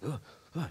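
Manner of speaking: acted huffs of panic; panicked gasp. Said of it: "He begins to panic".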